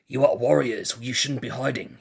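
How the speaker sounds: put-on a poor, light New Zealand accent. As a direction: try a New Zealand accent, not quite landing. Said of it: "Poor New Zealand accent there".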